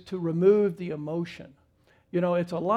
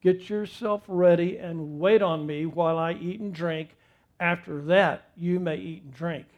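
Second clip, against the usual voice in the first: stern voice; 4 dB louder than usual. Retold or imitated. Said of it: "I said in a very stern voice".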